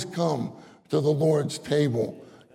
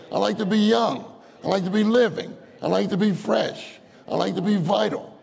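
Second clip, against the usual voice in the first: eager praying believer; 6 semitones higher than usual. Pretend. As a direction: lift each plea up eagerly to the Lord. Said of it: "We say".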